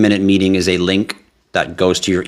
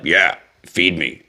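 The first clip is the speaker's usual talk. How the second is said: slow, put-on tummy voice begging for food; growling stomach voice; slower than usual. Streamer voicing his growling stomach, slow mock plea. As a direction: play your hungry stomach, drawn out. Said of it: "my stomach growled like".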